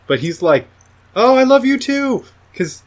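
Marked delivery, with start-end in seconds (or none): 1.2-2.2 much higher, sing-song and oblivious; mock blissful lover. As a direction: gush it, deaf to her plea.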